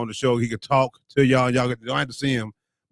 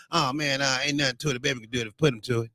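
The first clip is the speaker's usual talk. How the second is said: imitating Unc; 4 dB quieter, faster than usual. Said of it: "Unc may say".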